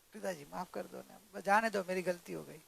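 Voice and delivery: soft, low pleading; calm apology. Acted. Daughter-in-law begs father-in-law to let it go, calm. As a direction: ask forgiveness gently to soothe him. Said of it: "आपको शांत जल डालने का".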